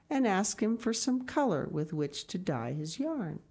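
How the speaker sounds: bright, lifted read-aloud storytelling; storybook narration. A narrator's reading. Reading a picture book aloud to children, lifted storytelling. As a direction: tell it like a bedtime story to the kids.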